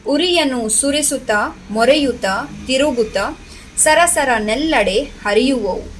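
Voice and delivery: rhythmic classroom verse reading, each line falling at the end; poem recitation. Acted. Teacher reciting a crackers poem to grade four children, rhythmic recitation. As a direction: recite in measured phrases with a lilting rise and fall.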